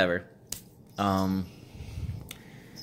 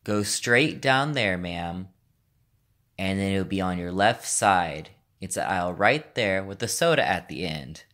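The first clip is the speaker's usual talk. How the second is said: slowed down dramatically. Acted. Store worker directing confused customer, slowed down dramatically. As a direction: draw out the directions for someone not following. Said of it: "So I slowed it down dramatically".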